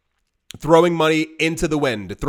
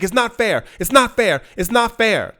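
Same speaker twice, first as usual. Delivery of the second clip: much higher, whining protest; imitating a wail; 9 semitones higher, 4 dB louder than usual. Retiree wailing to interviewers, higher imitated lament. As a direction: wail it like a hurt old woman. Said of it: "She's like".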